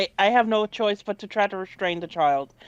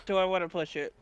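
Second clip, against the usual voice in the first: musing to oneself; 2 semitones lower, 6 dB quieter, faster than usual. Real, not acted. Player weighs a reroll, quiet musing. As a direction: think it over under your voice. Player repeats question to self.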